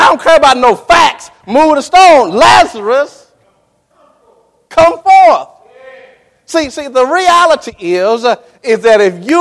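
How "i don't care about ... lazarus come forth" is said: commanding call. Acted. Jesus calling Lazarus out of the grave, commanding. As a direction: call the dead man out of the tomb.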